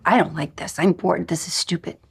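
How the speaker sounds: lightly acted sulky inner voice; bored complaint. Teacher voices the barking dog in minute two, bored.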